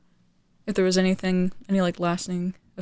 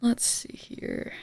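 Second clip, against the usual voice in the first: whispering; 3 semitones higher, 5 dB quieter, much slower than usual. Real, not acted. Thinking aloud, to self.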